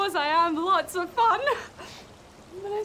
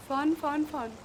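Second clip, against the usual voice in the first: flat serious; 3 semitones lower than usual. Shown as a demonstration. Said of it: "try to be more serious".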